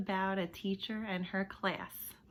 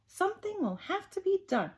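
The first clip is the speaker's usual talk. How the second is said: determined teacher; 12 semitones higher than usual. Acted. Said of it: "said Miss Nelson".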